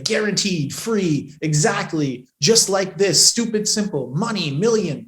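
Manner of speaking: "guaranteed", "free", "exactly" each punched separately; each keyword from "guaranteed" to "million" stressed on its own; emphasized keywords. Shown as a demonstration. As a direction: hit "stupid, simple" and "money, million" as standout words. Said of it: "when I'm emphasizing words like".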